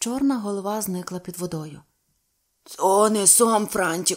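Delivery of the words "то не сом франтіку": altered, alien-sounding, unfamiliar voice, raised. A narrator reads an old man speaking to a companion by the water: strange voice. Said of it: "сказав старий Повондра якимось чужим голосом".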